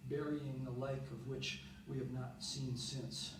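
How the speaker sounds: subdued recital with pauses between phrases; poem reading. Acted. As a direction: read it as a poem, quietly winding down. Reads a poem aloud.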